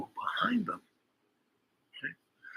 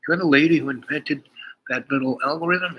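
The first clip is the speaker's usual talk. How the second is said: louder, higher amazed question; impressed owner recognizing her, louder and higher; excited recognition; 6 semitones higher, 4 dB louder than usual. Retold or imitated. Nightclub owner amazed to meet the inventor, louder. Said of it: "Christine Barnes".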